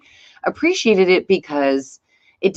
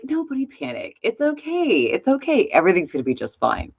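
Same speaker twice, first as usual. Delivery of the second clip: imitating Trump; 4 dB quieter than usual. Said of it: "President Trump is like".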